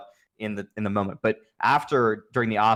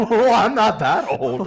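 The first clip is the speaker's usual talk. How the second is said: laughing; 10 semitones higher, 6 dB louder, slower than usual. Real, not acted. Laughs at own joke.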